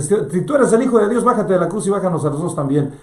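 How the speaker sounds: loud, fast, high taunting jeer; mocking blasphemy. Gestas taunts Jesus from his cross, loud mocking jeer. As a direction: sneer it up at him, fast and loud. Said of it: "y empieza a blasfemar".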